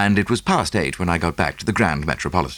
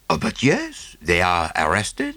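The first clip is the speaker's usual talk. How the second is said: put-on lightly French-accented little detective; a touch of French accent, beaming; Poirot; slower than usual. Poirot voiced.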